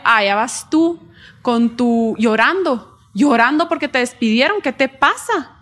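scoffing mock partner, lightly voiced; dismissive mocking partner. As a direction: brush off the tears with a light sneer.

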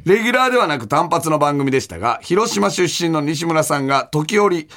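measured radio mail reading; listener letter read-out. Acted. Host reading a listener's letter about Cotton's radio show, measured read-aloud. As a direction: read the letter out evenly to the audience.

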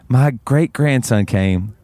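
slow, deliberate retelling of her boast; slow, weighty delivery with pauses; earnest elderly woman. Retold or imitated. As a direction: quote her in dead earnest, drawn out. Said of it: "She looks me in the eye".

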